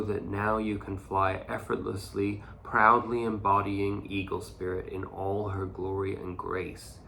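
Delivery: steady, inspirational card reading; reading aloud. Acted. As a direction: read the oracle passage with gentle ceremony. Reads the oracle card text.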